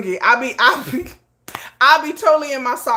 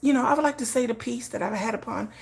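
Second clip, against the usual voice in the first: peaceful spirit talk; 3 semitones higher, 7 dB quieter than usual. Retold or imitated. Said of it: "if y'all ever hear me talking some shit like that".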